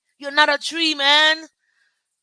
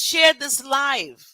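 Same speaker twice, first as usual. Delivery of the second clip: 1 emphatic; 2 semitones higher, 4 dB louder, much slower than usual. Real, not acted. Urging viewers to share.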